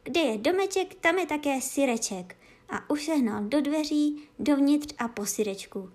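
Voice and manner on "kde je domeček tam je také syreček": happy dog voice. Acted. Dog triumphant.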